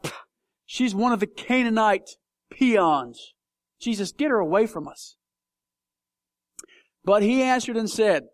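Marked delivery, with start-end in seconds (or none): 0.0-5.2 disciples scoffing. Retold or imitated. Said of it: "The disciples are like".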